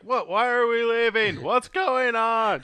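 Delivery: high, slow, puzzled squeak; high confused lackey. Acted. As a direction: squeak it out, baffled and laughing. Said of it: "Sozin's like".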